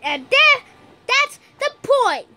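mildly heated, emphatic; getting angry. Acted. Player fed up with the broken console, mildly angry. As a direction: let irritation build through the words. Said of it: "angry right now".

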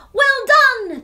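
loud, high well done; cheering. Acted. Classmates cheering Clara's win loudly. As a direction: cheer her on. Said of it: "they all cheered".

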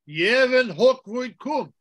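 slow, loud congregational reply; loud response. Shown as a demonstration. Priest showing the congregation how to answer aloud, slow and loud. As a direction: call it out slowly with the choir. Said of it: "in a loud voice with the choir".

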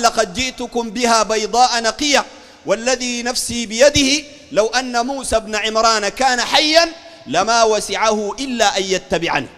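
slow, measured classical Arabic; stately preacher quoting scripture; solemn hadith recitation. Acted. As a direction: recite it deliberately, word by word.

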